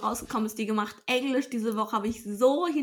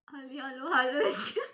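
überdrehte YouTuberin-Begrüßung; Bibi-Stimme. Retold or imitated. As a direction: quietschig begrüßen wie Bibi. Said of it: "zu deinem Bibi". (Bibi nachmachen)

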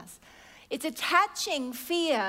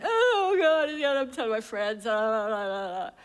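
mock panic relapse; 4 dB louder than usual.

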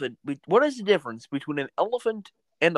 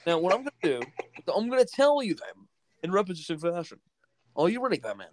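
John Oliver as the Joker. Acted. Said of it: "do John Oliver as, uh, the Joker".

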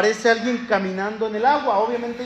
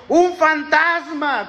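high, slow, scared cry of a ghost; terrified disciples on the boat crying out in fear; frightened cry; 7 semitones higher, much slower than usual. A narrator's reading. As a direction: shriek it out in fear. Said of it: "se turbaron".

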